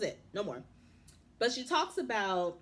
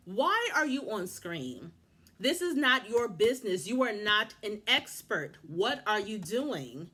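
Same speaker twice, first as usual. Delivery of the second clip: slow, emphatic telling-off; indignant scolding; slower than usual. Real, not acted. Vlogger berating the producer on screen, indignant. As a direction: spell it out slowly, outraged.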